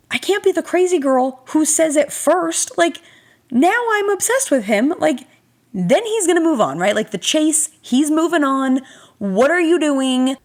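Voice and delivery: panicked inner voice. Retold or imitated.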